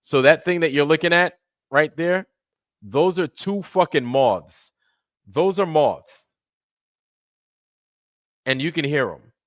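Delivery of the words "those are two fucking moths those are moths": higher, louder and slow, amazed; excited. Real, not acted. Streamer showing chat the moths, excited and slow. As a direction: point at the screen in disbelief. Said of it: "showing chat the moths".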